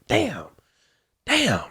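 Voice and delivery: high-pitched mock cursing, short bursts; imitated cursing. Customer cursing over his missing gun, imitated frustration. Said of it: "he's just cursing like".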